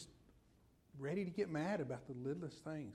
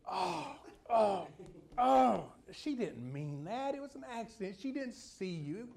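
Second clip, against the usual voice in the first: sheepish surprise; 7 semitones higher, 4 dB louder, slower than usual. Pretend. Driver seeing the little old lady, high sheepish backing off. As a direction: gasp high then melt into embarrassed sympathy.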